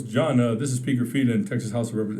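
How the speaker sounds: a hint of a stern, formal politician; lightly voiced serious Speaker of the House; serious official. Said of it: "And then he was serious".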